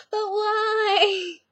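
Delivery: high, put-on innocent little voice; mock innocent question. Vlogger voicing her friend teasing the rival, high put-on innocent voice. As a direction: ask it like a puzzled child. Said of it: "Katie was like".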